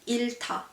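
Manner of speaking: 잃다 as 일타, L then T; 잃다 with first syllable ending on L; no H sound. Shown as a demonstration. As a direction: say 잃다 with no separate H. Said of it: "So there's no H sound".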